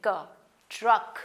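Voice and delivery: क then ट्रक drawn out slowly with a rise; slow sounding out. Shown as a demonstration. Teacher showing how c and k make one sound. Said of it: "एक ही sound बनेगी".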